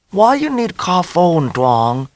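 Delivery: put-on high, slow accented mother, scolding lightly; Vietnamese-accented mother. A narrator's reading. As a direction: question him like a doubtful mother in a Vietnamese accent.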